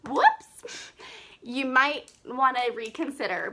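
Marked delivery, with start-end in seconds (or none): 0.1-0.9 surprised. Real, not acted. Slip during the vlog.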